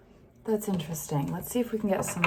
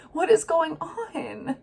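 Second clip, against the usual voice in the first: teary; 7 semitones higher than usual. Real, not acted. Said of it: "Now I'm just gonna cry for you".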